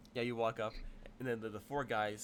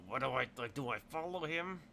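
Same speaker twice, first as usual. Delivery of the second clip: unsure; 5 semitones higher, 3 dB louder than usual. Acted. Confused henchman asks over comm link.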